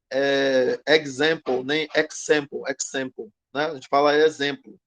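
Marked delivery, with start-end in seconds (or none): 0.9-3.3 example said with an English ks, ek-sem-po; wrong pronunciation. Shown as a demonstration. Teacher listing wrong versions for students. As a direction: give example a foreign ks cluster. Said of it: "A gente não diz".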